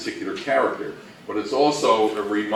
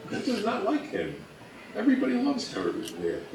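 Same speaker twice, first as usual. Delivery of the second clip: high, giggly voice breaking into laughter; laughing; 13 semitones higher, 6 dB quieter than usual. Real, not acted. Co-host laughing about the beloved actor, high and giggly. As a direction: laugh the words out, much higher.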